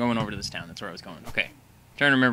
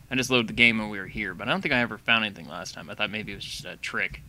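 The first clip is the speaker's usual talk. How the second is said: swollen mouth; 3 semitones lower than usual. Real, not acted. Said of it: "and if I sound odd, I'm sorry. my tooth is killing me".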